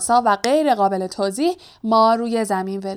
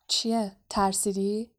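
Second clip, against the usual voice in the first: under the breath; 7 dB quieter, slower than usual. A narrator's reading. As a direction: murmur it so only Harry hears. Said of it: "زیر لب به هری گفت". (زیر لب و آهسته)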